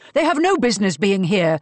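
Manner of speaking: loud angry protest; bellowing. A narrator's reading. Marcus objects to the visitors in his foyer, bellowing. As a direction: bellow with outrage. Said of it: "bellowed Marcus".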